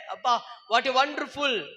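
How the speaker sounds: ordinary delivery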